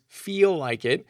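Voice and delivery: mock whine; whiny voice. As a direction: whine it like a kid. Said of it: "insert whiny voice".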